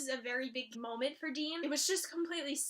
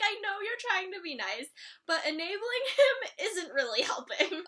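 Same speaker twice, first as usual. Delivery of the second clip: laughing scolding; 4 semitones higher, 3 dB louder than usual. Retold or imitated. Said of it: "I'm like".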